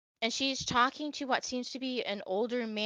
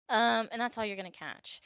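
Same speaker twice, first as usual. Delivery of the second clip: ordinary talk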